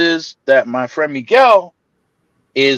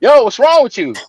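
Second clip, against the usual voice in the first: higher, laughing, incredulous; mock disbelief; 10 semitones higher, 3 dB louder than usual. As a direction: act out a sister who can't believe it.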